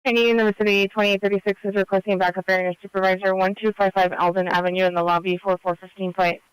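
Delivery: tinny two-way radio dispatch; crackly police radio. Real, not acted.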